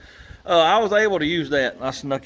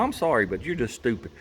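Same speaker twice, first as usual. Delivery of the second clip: grudging mock apology; 3 semitones lower, 5 dB quieter than usual. Real, not acted. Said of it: "No, I'm not sorry".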